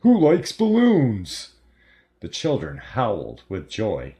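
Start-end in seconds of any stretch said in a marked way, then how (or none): 0.0-1.6 high, loud cartoon party clown; screechy clown voice. A narrator's reading. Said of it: "he screeched in a stereotypical clown voice".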